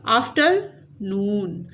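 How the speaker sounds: आफ्टरनून slowly, with "नून" drawn out; teacher stressing the "नून" of आफ्टरनून; syllable stress demo. Shown as a demonstration. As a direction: split आफ्टरनून and stretch the final "नून". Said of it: "नून पे stress है".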